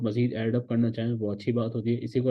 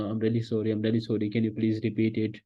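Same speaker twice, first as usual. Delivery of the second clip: polite apology demo; much slower than usual. Shown as a demonstration. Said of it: "माफ़ी मांगना, बात बात पर सॉरी बोलना".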